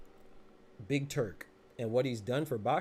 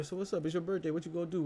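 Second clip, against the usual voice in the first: lightly acted, higher-pitched chat-up; imitated flirty chat-up; 5 semitones higher than usual.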